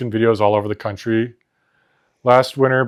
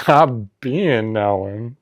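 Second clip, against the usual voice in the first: very slow, laughing imitation of the sass; mock sassy; much slower than usual. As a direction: drag it out, imitating the friend. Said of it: "it's so funny".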